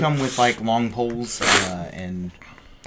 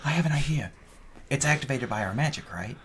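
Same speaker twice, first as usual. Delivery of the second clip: whispering; 5 dB quieter than usual. Acted. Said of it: "Why are you whispering?".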